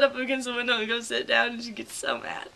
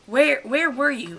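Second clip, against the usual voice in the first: stern teacher; 6 dB louder, slower than usual. Retold or imitated. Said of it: "she's like".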